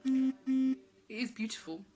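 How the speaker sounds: trying not to cry on the word beautiful; holding back tears. Real, not acted. Preacher moved near tears describing the angels, voice breaking. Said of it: "I'm gonna try not to cry".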